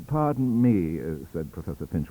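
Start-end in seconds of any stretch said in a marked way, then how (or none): 0.1-1.0 scornful. Acted. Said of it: "high-bred scorn and unruffled temper".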